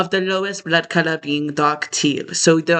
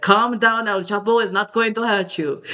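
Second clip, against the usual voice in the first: higher-pitched imitated calming; mock reassurance; 3 semitones higher than usual. Others telling the time traveler not to fear, imitated reassurance. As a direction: imitate someone soothing, pitched up at the start. Quoting people calming the speaker.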